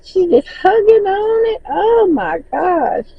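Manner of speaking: squealing with laughter, high; giggling with delight as she tells it; laughing delight. Real, not acted. Gushing over girl hugging spider.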